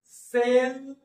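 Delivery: सेल्फ stretched high, then a separate फ; slow teaching sound-out of सेल्फ; broken-up slow pronunciation. Shown as a demonstration. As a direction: hold the first part of सेल्फ, detach फ. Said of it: "फोडून फोडून उच्चार लिहितो आणि हळूहळू".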